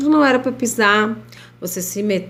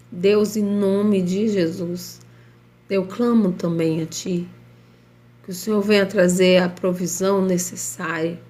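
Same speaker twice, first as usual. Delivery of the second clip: prayer. Acted. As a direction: pray earnestly over the listeners. Leads a live prayer.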